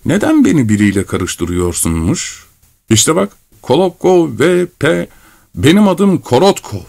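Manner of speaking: high-pitched, exasperated correction; impatient cry. Acted. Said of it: "diye haykırdı sabırsızca Korotkov". (sabırsızca haykırarak)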